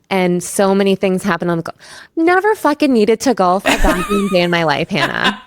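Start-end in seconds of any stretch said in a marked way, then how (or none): 2.1-5.4 laughing exasperation. Real, not acted. Laughing rant about golf.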